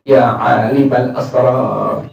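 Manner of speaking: drawn-out, slow plea to God; slow pleading call. Retold or imitated. Pious man calling on God, a slow earnest plea. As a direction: call on God slowly, from the heart. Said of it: "Lisannya dia berucap".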